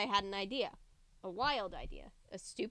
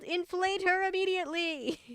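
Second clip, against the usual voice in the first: a much higher, hammed-up monster demand; 8 semitones higher than usual. A narrator's reading. Horror demanding reinflation.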